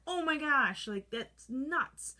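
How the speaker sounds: high-pitched shocked exclamation. Retold or imitated. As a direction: gasp at the sight. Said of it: "I'd look in the machine and go".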